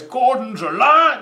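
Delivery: slow, high, loud bellow; booming movie shout. Retold or imitated. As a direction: belt it out like a film hero. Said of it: "No, I think he goes".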